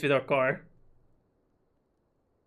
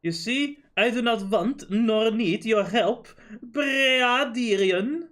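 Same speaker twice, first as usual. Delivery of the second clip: a lightly voiced snooty inspector, higher; haughty inspector; 5 semitones higher, slower than usual. Inspector dismissing amateurs, lightly snooty. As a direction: sneer down at the amateurs.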